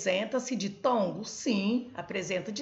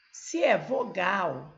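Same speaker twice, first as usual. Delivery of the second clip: slow emphasis; 4 dB louder, slower than usual. Shown as a demonstration. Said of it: "se termina".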